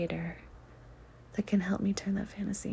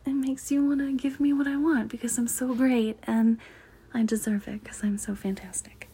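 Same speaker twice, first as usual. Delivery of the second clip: princess voice; 3 semitones higher than usual. Shown as a demonstration. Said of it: "a good example would be, like, doing this".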